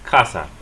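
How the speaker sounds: "casa" as KAH-sa; "casa" with a weak, falling second syllable; stress on first syllable. Shown as a demonstration. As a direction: punch the "ca" in "casa". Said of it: "stress the next to the last syllable".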